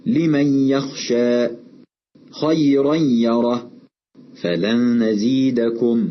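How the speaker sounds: slow faulty demo swallowing the ن in "لمن يخشى خيرا يره فلن نزيدكم" without a nasal hum; hidden noon, no ghunna. Shown as a demonstration. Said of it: "أن نخفي النون الساكنة أو التنوين دون غنة".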